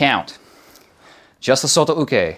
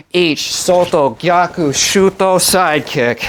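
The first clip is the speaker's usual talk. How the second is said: sharp martial arts commands; 5 semitones higher, 3 dB louder, slower than usual. Shown as a demonstration. Karate teacher counting drill.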